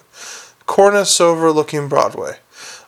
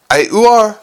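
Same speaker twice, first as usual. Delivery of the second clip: gargoyle voice; 6 semitones higher, 5 dB louder than usual. Acted.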